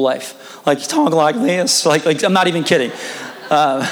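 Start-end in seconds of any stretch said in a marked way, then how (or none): 0.8-1.9 slow Southern drawl with cracking voice; Southern twang breaking like a boy in puberty; pubescent Southern accent. Shown as a demonstration. Imitating a homeschooled Tennessee teammate, pubescent Southern accent. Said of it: "Southern accents that sound like you've been in pure puberty".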